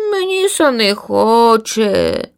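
high, very slow, reluctant little voice; stubborn chick. Acted. Lazy chick Linivka refuses mother, slow and unwilling. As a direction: drag it out like a lazy child. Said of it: "далевила своє Лінивка".

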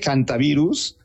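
hantavirus with the written H left unpronounced; silent H. Shown as a demonstration. Doctor corrects host on air, hantavirus with silent H. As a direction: say hantavirus as "antavirus", no H sound. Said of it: "aunque se escribe con H".

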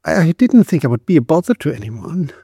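put-on high, thin girlish voice; small high voice; shrill voice. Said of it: "in her shrill voice".

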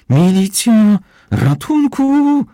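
very high, very loud drawn-out cry; screaming for help. Acted. Tied-up Kozłowski screams for the police, very high and loud. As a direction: scream it like a man about to be skinned. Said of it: "wrzeszczał Kozłowski".

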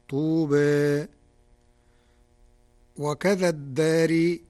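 vowels tilted toward e as in "الدنيا" dunye; Warsh taqlil. Shown as a demonstration. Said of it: "قرأ ورش في الكلمات الآتية بالتقليل".

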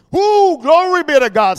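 high whoop into praise; exultant praise. Real, not acted. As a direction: burst out of the hush rejoicing. Exultant praise after the hush.

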